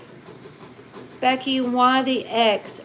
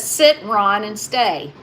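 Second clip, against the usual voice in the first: said again louder for him to hear; louder repeat; 5 dB louder, slower than usual. Shown as a demonstration. Repeating the comment louder for Ron who missed it.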